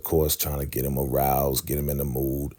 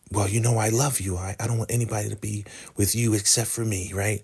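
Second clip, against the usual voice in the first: higher-pitched voice for the woman; pleading lover; 6 semitones higher than usual. Retold or imitated. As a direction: profess love in a pitched-up retold voice. Ruth professes love to the leader.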